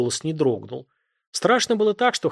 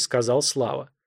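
plain reading voice

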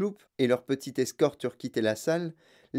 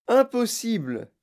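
high, drawn-out exclamation; crying out; 9 semitones higher, 3 dB louder, slower than usual. A narrator's reading. Wonka rejects the mother's fear, crying out. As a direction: exclaim it as a firm denial. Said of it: "cria Monsieur Wonka".

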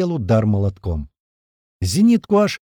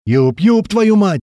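loud, raised impatient call; 8 semitones higher, 6 dB louder, much slower than usual. A narrator's reading. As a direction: call sharply to get his attention. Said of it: "позвал я". (громкий раздражённый оклик)

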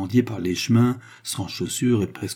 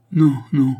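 balbutié effrayé; 5 semitones higher, 7 dB louder than usual. A narrator's reading. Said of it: "balbutia-t-il".

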